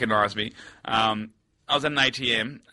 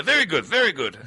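put-on higher-pitched Asian-accented approval; imitated Asian accent; 4 semitones higher than usual. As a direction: praise in the driver's Asian accent. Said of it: "Oh, I do the accent continually".

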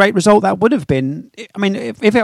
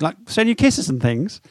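laughing; 3 dB quieter than usual. Real, not acted. Joking about ending the call.

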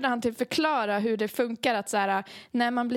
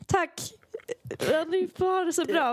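polite thanks; 7 semitones higher than usual. Retold or imitated. Politely thanking leaving paramedics.

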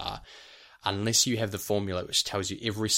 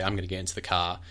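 casual Kiwi line, R dropped from CAR; New Zealand accent, non-rhotic car; faster than usual. Shown as a demonstration. Teacher showing what we'd say, New Zealand accent. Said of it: "we'd say".

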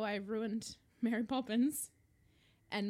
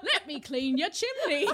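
put-on terrible Dick Van Dyke accent; 3 semitones higher, 4 dB louder than usual. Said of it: "the terrible Dick Van Dyke accent".

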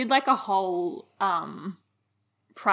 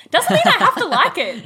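high, loud indignant snap; indignant retort; 12 semitones higher, 9 dB louder than usual. Retold or imitated. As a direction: fire it back with indignation. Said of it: "And I'm like".

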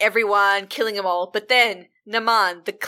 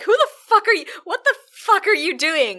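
much higher and louder; angry gangster yell; 10 semitones higher, 4 dB louder than usual. Retold or imitated. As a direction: bark it at the intruder.

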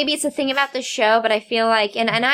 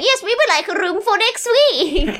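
mock grown-up caller; 9 semitones higher than usual.

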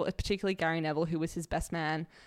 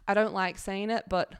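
Gary Neville impression. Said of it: "You did that well".

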